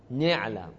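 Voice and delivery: نعلم opening on "ne", low and falling; Taltala dialect. Shown as a demonstration. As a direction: say نعلم as ne'lam. (نعلم با کسرهٔ نون)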